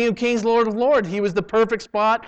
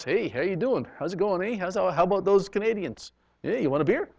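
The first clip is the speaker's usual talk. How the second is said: put-on Canadian accent; 2 semitones higher than usual. Pastor imitating Canadians offering a beer, mild Canadian accent. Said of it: "And they talk like that".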